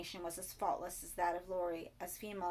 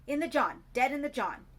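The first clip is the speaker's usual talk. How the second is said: shocked blurt; 6 semitones higher, 10 dB louder than usual. A narrator's reading.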